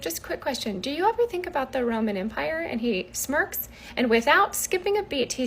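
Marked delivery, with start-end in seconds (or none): 0.0-2.6 soft, careful question; cautious ask. Retold or imitated. Wife cautiously asking husband about Rome, softly. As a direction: tiptoe into the question.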